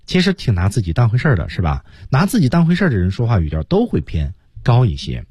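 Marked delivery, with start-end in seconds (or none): none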